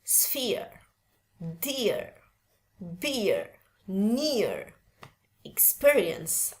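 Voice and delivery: "sphere, dear, beer, near" with an audible R; American demo, "near" closing on R; American, R sounded. Shown as a demonstration. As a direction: read "sphere" to "experience" American-style, R pronounced. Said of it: "Kalau orang Amerikan bacanya".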